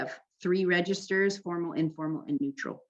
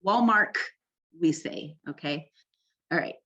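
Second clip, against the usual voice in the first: country accent. Shown as a demonstration. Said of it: "like, a country".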